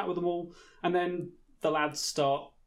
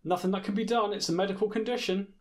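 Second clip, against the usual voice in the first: mock islander; 5 semitones higher than usual. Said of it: "that's Love Island four".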